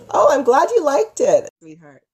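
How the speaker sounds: usual speaking voice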